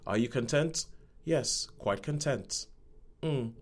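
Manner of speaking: deadpan. Retold or imitated. Couple asking each other, lightly deadpan. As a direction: say it like nothing could ever matter. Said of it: "They are very deadpan".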